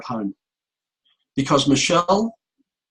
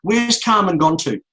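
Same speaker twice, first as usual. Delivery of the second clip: higher, louder, exasperated challenge to the policeman; angry demand; 7 semitones higher, 4 dB louder than usual. Retold or imitated. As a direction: snap at him in disbelief. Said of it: "I got really mad with him".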